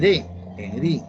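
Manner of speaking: "re" and "ri" set apart and stressed; stressed syllables singled out. Shown as a demonstration. Teacher shows students where arena and harina are stressed, syllables singled out. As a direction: land firmly on "re", then on "ri". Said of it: "Porque la sílaba tónica".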